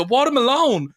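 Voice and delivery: high, exclaimed "Watermelon"; exaggerated mimicked catchphrase on "Watermelon"; echoed vine voice. Shown as a demonstration. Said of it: "I just go".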